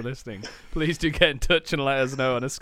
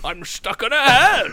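tiny trapped voice; 9 semitones higher, 7 dB louder than usual. Pretend. Pretend trapped in a hand.

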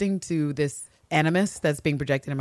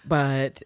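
"but" left hanging unfinished; trailing off; 3 dB louder than usual. Retold or imitated. Ann Walker declining the proposal, "but" trailing off. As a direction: let "but" hang as an unfinished sentence. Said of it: "it's like a trail off".

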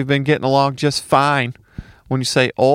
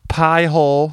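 "Pie hole" repeated in a lighter Southern drawl; Southern accent; 3 semitones higher, 3 dB louder than usual. Shown as a demonstration. Repeating the Southern drawl to show it.

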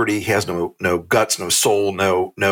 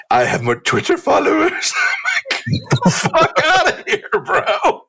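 mocking Gaetz squeal. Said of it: "Oh, the".

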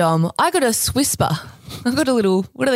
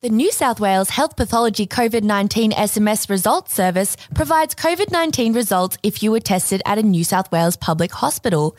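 robot voice. Acted. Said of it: "can I do a robot voice?".

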